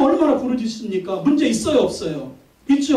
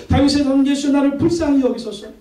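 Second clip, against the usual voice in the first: mock cry for mercy, slightly raised; 4 semitones higher than usual. Blind Bartimaeus calls to passing Jesus, retold crying out. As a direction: imitate a beggar calling out to be noticed. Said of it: "소리 질러요".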